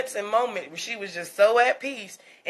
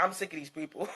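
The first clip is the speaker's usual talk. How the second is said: voicing the baby; 6 semitones lower, 14 dB quieter, faster than usual. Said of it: "She was just like".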